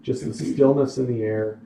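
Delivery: measured storytelling in separate phrases; game master narration. Acted. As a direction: describe the scene to your players, pausing between details. Game master sets scene.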